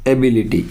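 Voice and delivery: एबिलिटी, stressed on the "bi" syllable; teacher's model of एबिलिटी with second-syllable stress on "bi". Shown as a demonstration. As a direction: put the weight on "bi" in एबिलिटी. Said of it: "यानी बी के ऊपर".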